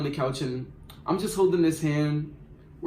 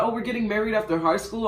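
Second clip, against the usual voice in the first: higher, mock-dreamy question; naive boyfriend; 6 semitones higher than usual. Boyfriend proposes marriage to the narrator, higher and mock-dreamy. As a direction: imitate him being starry-eyed. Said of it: "he had the nerve to be like".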